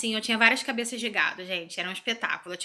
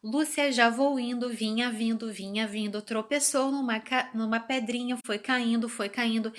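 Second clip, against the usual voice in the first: reading with rhythm. Shown as a demonstration. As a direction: read it aloud with rhythm and intonation, like a little girl who has just learned to read. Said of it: "Já Vou Indo com ritmo, com entonação". (leitura ritmada e cadenciada, como criança recitando a cartilha)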